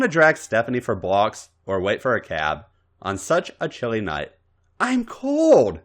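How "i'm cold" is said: mumbling. Acted. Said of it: "she mumbled".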